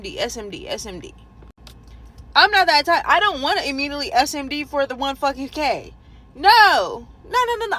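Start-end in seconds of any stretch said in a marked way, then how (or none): 2.3-7.8 outraged refusal. Retold or imitated.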